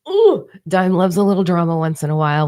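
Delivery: breathy confiding whisper, like a secret; conspiratorial whisper. Real, not acted. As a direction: lean in and whisper the confession. Confiding drama love, aside.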